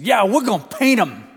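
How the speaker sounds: put-on high, bright-eyed kid asking the road crew; little boy voice. Grandson eagerly asking the road crew about rocks, high child voice.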